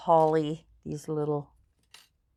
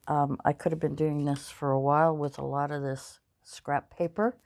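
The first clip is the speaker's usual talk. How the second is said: talking through a yawn; stretched words mid-yawn. Real, not acted. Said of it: "Excuse me if I'm yawning".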